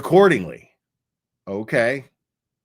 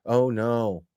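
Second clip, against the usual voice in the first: fake consoling; 3 semitones lower than usual. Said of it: "trying to fake console her".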